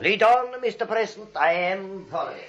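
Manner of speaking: mock obedient. Einstein obeys Teddy's game.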